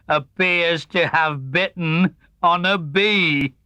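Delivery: slow, dry donkey drone; gloomy Eeyore. Acted. Eeyore remarking on Tigger to Pooh, slow gloomy drone. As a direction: drag each word out, unimpressed.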